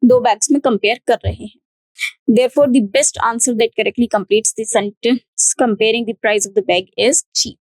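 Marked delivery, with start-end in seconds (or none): 2.4-7.6 slow, careful model answer; slow answer read. Shown as a demonstration. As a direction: dictate the answer slowly. Reads model answer slowly. (धीमे, साफ़ उत्तर पढ़ना)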